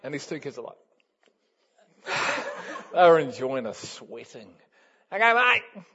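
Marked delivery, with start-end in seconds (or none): 5.1-5.8 high, loud teasing countdown. Retold or imitated. Aussie kids teasing the scared riders, a loud high countdown. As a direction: count down loudly to tease him.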